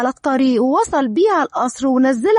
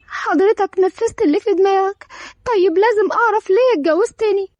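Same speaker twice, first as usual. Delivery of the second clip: higher-pitched, mildly tearful pleading; 4 semitones higher than usual. Acted. Bride asks new husband why he married her, tearful. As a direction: demand answers through held-back tears. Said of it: "دارين بدموع".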